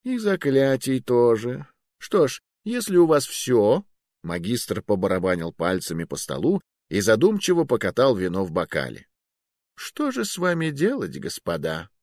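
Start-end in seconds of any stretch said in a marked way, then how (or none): 0.0-3.8 put-on high, sly old sorcerer voice; old magister. Magister voice, held figure. 9.8-11.9 put-on high, sly old sorcerer voice; old magister. Magister musing.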